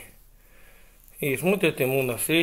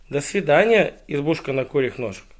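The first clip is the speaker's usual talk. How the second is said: lilting polite farewell, raised then falling; very polite hedgehog; 4 dB louder than usual. Acted. Hedgehog takes leave of the hut, politely singsong. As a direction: bid a courteous storybook goodbye. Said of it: "жил очень вежливый ёжик".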